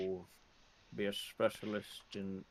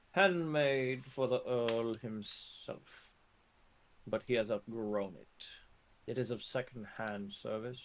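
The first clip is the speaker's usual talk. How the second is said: lightly voiced proud shopkeeper; proud merchant, lightly voiced. GM plays the merchant.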